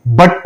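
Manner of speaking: बट with an "uh" vowel; short U. Shown as a demonstration. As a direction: keep the vowel in बट short and unrounded. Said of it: "हमारा short sound". (बट में छोटा अ)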